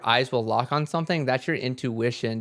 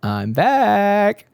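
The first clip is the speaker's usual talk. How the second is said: soul speaking; 9 semitones higher, 4 dB louder than usual. Retold or imitated. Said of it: "and my soul said".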